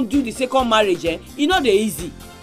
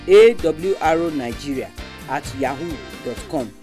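email address read slowly; slow dictation; 5 semitones lower than usual. Shown as a demonstration. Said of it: "Make I take am again".

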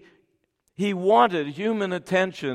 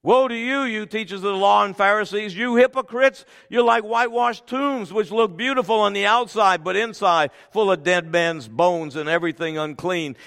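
loud, raised scripture denunciation; forceful rebuke; 3 semitones higher, 4 dB louder than usual. Acted. Jesus rebuking the Pharisees and hypocrites, forceful. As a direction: thunder the woe at the hypocrites.

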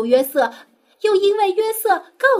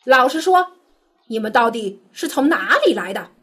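an official pretending to be angry; feigned anger. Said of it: "故意用生气的口气". (故意装出生气的口气)

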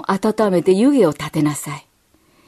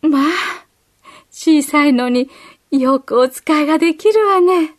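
lightly voiced nurse, somewhat higher; a hint of a nurse praising the child; 子供を褒める看護婦を軽く演じて; kind nurse; 6 semitones higher, 3 dB louder than usual. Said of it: "と言いながら".

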